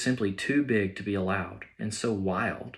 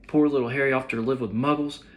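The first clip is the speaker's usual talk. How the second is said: higher, louder grief-stricken wail; sobbing; 5 semitones higher, 6 dB louder than usual. Acted. Hagrid mourning Lily and James to McGonagall, sobbing loudly. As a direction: cry it out, overwhelmed with grief. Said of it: "sobbed Hagrid".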